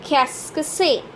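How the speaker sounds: Qu'est-ce que c'est in three syllables, "kess-kuh-seh"; pronunciation model. Shown as a demonstration. Teacher repeating for learners, Qu'est-ce que c'est as "kess-kuh-seh".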